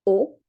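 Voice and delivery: O said as a central half-close vowel; O central mi-fermé; rolo O. Shown as a demonstration. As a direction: model the rolo O. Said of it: "La voyelle O se prononce comme".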